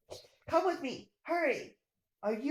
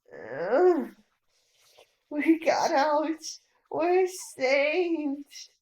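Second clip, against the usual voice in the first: relieved sob; 5 dB louder, much slower than usual. Acted. Rescued from under the beam.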